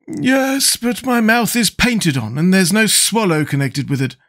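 high-pitched character voice, explaining confidently; Scarecrow, self-assured. Acted. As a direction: lecture the others in a high Scarecrow voice.

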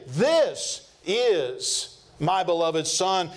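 very slow, solemn proclamation; voice of God. Retold or imitated. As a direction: stretch out 'This is my beloved son' word by word, leaning on 'This'. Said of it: "as we heard God himself say".

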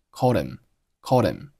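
"called him" run together, h dropped; linked words. Shown as a demonstration. Teacher showing learners linking, "called him" as one word. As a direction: slide "called" into "him" without the h. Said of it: "开头的h不发音".

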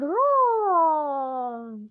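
drawn-out loud roar like a big cat; playful loud cat roar. Shown as a demonstration. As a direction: roar it out like a lion cub. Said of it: "make the purring sound".

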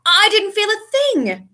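high, loud and drawn out; excited. A narrator's reading. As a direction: marvel at it excitedly. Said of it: "Harry said excitedly".

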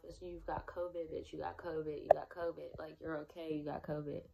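quiet, soft self-talk; reassuring herself. Retold or imitated. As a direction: murmur it to yourself to stay calm. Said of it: "And I keep telling myself".

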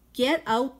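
loud, high angry yell; angry farmer shouting at the donkey. Acted. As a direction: bark it like a furious farmer. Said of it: "he yelled".

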